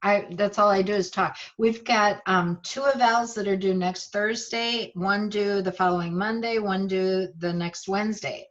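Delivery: talking while chewing gum; words around a wad of gum. Real, not acted. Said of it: "just put a piece of gum in my mouth".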